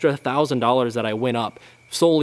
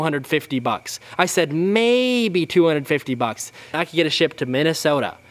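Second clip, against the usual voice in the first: whiny dad voice; 3 semitones higher than usual. Retold or imitated. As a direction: drag it out, high and whiny, mocking him. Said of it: "this high-pitched, whiny voice".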